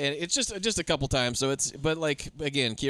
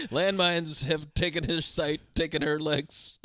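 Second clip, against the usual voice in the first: slow, drawn-out, deadpan words; slow mock-solemn recital; 3 semitones lower, slower than usual. Doctor gives the bad news as a band's lyrics, slow mock-solemn recital. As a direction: recite it slowly like grave lyrics.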